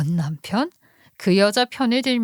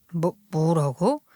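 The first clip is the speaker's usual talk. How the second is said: indignant husband. Acted. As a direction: turn the blame back on the wife. Husband fights back at wife. (적반하장으로 따지는 남편 목소리)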